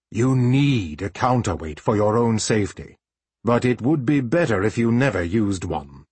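a lightly voiced stern master; measured, serious mentor; stern teacher voice. Master Rufus warning about chaos magic.

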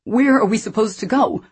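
high, loud, near tears; desperate plea. A narrator's reading. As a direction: plead as the panic spills over. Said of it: "with increasing desperation".

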